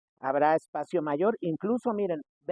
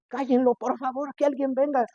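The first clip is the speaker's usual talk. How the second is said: mock plea; 7 semitones higher, 4 dB louder than usual. Sick man begs for silence.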